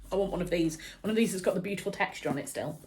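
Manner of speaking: talking through hiccups; suppressing hiccups. Real, not acted. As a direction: hold back the hiccups while talking. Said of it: "I've got hiccups 'cause I'm getting too excited".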